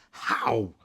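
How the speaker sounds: stunned whisper. Acted. Kestrel asking how her friend died, whispering. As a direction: breathe the question out. Shocked at news of death.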